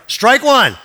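loud, high umpire shout; umpire's call. Retold or imitated. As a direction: call the strike out to the crowd. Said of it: "I heard the umpire go".

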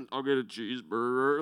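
deliberately deepened "I'll get a cheeseburger". Retold or imitated. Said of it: "make my voice lower".

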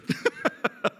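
a short, breathy, unvoiced laugh at a funny picture; stifled laugh. Real, not acted. Preacher picturing Adam with no pockets, a quiet breathy laugh. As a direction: let a quiet laugh slip out. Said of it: "I shouldn't laugh at this".

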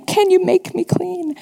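a touch of a beggar's plea; mild begging. Retold or imitated. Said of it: "Look at him begging".

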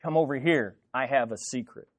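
low, hushed, confiding voice; secretive psst. Acted. Gossip calling someone over for a secret, hushed. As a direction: beckon softly, as if sharing a secret. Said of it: "the sound you make when you say".

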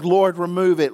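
loud, pleading Lord, remove it; pleading cry. Retold or imitated. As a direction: cry it out to God. Paul's repeated plea.

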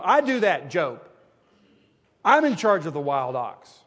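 loud, high, preaching as God thundering at Job; God confronting Job, loud and high; God's booming challenge. Acted. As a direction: boom it out like God questioning Job. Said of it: "he says".

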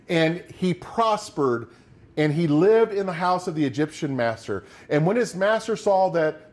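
steady, measured Bible reading from the pulpit; scripture reading. Acted. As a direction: read the verses out to the congregation. Reads Genesis aloud.

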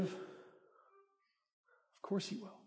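hushed and drawn out, very soft; soft, slow reassurance. Acted. Pastor reassuring the congregation, hushed and slow. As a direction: let it fall gently, slowly. Pastor answers own question, softly.

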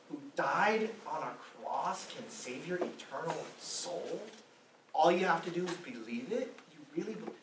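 a hint of a scoffing professor, half-whispered at first; mocking professor. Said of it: "And they said".

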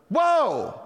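high, loud yelp of shock; startled shout. Retold or imitated. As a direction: recoil as if seeing a ghost. Sees woman he believed dead.

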